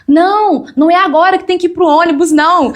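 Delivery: brisk, insistent correction of the pastor; pastor's instruction. Retold or imitated. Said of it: "a pastora Alcione me pegou pelo braço".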